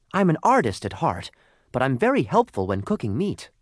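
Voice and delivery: high little coal voice; small high voice, eager to help; talking lump of coal, hopeful. Acted. Lump of coal's voice.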